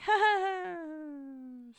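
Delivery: imitating people laughing it off; mocking laugh. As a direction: drawl out a fake carefree laugh. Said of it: "other people that are like".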